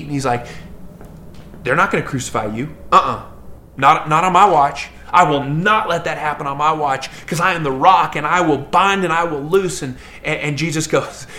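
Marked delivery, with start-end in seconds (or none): 1.6-9.8 boastful shout. Retold or imitated. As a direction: brag it with swagger. Peter boasting loudly to Jesus.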